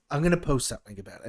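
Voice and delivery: a hint of a grumbling Trump; lightly mocking Trump ranting to himself; playful Trump impression, barely voiced. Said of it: "he was sitting there going".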